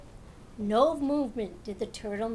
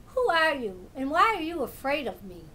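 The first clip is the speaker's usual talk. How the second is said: a lightly raised, curious cat; 4 semitones higher, 5 dB louder than usual. Acted. Cat meets a shy turtle, lightly voiced. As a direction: ask it as a friendly big cat would.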